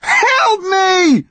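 high, wailing cry for help; desperate shout. A narrator's reading. Connor to the yew tree, desperate shout. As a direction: beg for help at full cry. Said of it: "Connor shouted".

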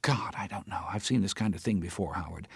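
a worked-up friend ranting about the case; Teresa's agitated voice. Acted. Teresa rants to Howard about the judge, agitated.

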